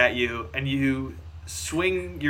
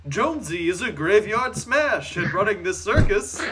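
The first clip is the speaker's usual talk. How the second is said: higher spooky crooner voice; spooky novelty-song voice; 5 semitones higher than usual. Acted. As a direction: croon it like a graveyard smash. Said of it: "It's the spooky novelty-song voice".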